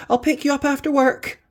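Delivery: high, loud character voice; high excited doctor; Doctor Glenda voice. Acted. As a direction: voice the doctor brightly, well above your own pitch. Glenda voiced in read story.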